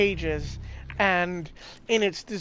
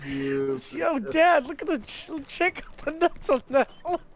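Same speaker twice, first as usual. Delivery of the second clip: lightly higher kid's call, a mild imitation; imitating kid; 6 semitones higher than usual. Friend replaying the boy's circus shout, mild higher kid voice. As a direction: echo the kid's line in a playful higher voice. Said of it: "four or five-year-old me".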